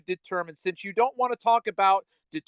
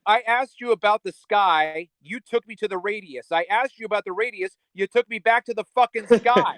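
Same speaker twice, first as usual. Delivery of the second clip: angry; 4 semitones higher, 4 dB louder than usual. Real, not acted. Heated argument, berating opponent.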